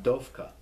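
"Dophkah" pronounced DOFE-kah. Shown as a demonstration. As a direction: say "Dophkah" with an F sound for the ph. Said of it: "P H sound like an F".

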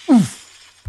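high, loud winded oof; winded grunt. Acted. Joker thrown through the glass, grunting.

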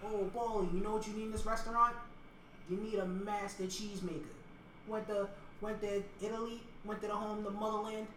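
a lightly put-on Italian-American accent with a wiseguy swagger; Italian mobster accent. Mobster pitching a cheesemaker to Paulie, in a light Italian-American accent. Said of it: "I'm still doing, like, the mannerisms".

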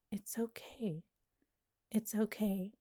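soft whispered reassurance; whispered comfort. Retold or imitated. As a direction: hush it like soothing someone. Man comforts her, quoted softly.

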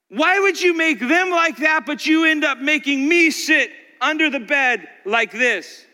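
a jealous pot protesting its shape; complaining spittoon. Acted. The spittoon whining to its potter.

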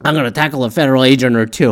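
fast, loud joking shout; joking yell. Retold or imitated. Joking to the marching protesters, a fast loud mock yell. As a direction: yell it out as a joke. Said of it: "I jokingly yelled out loud".

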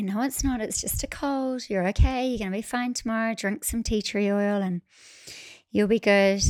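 soft, steady self-reassurance; firm self talk. Retold or imitated. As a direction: talk yourself down softly but firmly. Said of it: "I give myself a firm talking to".

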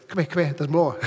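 lightly attempted Irish comic's catchphrase; badly faked Irish lilt, with a chuckle; bad Irish accent. Preacher quoting comedian Jimmy Cricket to the congregation, bad Irish accent. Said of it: "That's a bad Irish accent".

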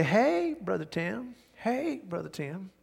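a hint of a Mississippi drawl on the phone; Southern drawl. Sister answering Brother Tim's call in a mild Southern drawl. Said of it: "she answers the phone the same way".

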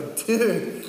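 exasperated rider insisting on how to steer; exasperated loud insistence. Retold or imitated. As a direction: raise your voice, sure you're right. Mark argues with the pastor.

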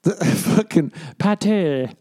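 high, drawn-out mimicry with a laugh; laugh, then stretch the word up high; mocking the video narrator. Laughing at the pronunciation video, high slow mimicry. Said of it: "That sounds like he's taking a piss".

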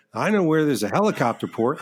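lightly put-on Southern accent; a hint of a Southern accent while quoting a friend; faint mock Southern accent on a retold line. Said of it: "I don't know why I'm giving him a Southern accent".

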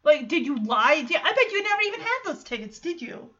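mildly irritated retelling, rising on the accusation. Retold or imitated. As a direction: voice an annoyed woman demanding answers. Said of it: "she's irritated".

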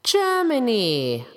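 drawn-out, careful reply; trying too hard to sound normal; forced normal tone. Retold or imitated. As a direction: stretch the word out, feigning nonchalance. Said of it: "keep a normal tone in my writing".

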